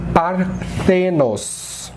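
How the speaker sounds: Parthenos drawn out very slowly, stress on the; slow Greek reading. Shown as a demonstration. Teacher reads the Greek word for Virgo slowly. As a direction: say Parthenos slowly, par-THE-nos. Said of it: "Ele não tem ... som próximo".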